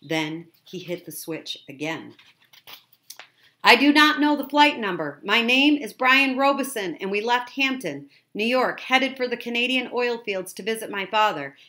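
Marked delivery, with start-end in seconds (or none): 3.6-11.5 loud, high, emphatic transmission; starts very loud, easing slightly but staying raised; urgent distress message. A narrator's reading. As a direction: project every fact urgently into the radio. Boy transmits desperate message.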